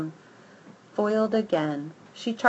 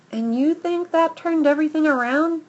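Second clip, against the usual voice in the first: huffy; 8 semitones higher than usual. A narrator's reading. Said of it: "Goldie says with a huff".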